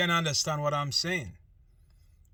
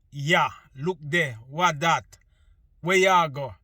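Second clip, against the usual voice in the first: mock Jamaican patois; 5 dB louder than usual. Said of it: "a Jamaican said".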